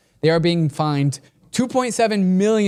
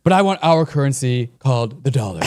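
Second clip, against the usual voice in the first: loud, higher hammed-up Trump, rushing the middle; Donald Trump impression; 4 semitones higher, 5 dB louder than usual. Reading Trump's Fox quote, loud mock Trump voice. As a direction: boast like Trump on TV, fast and loud. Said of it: "I'm, like, shit at impressions".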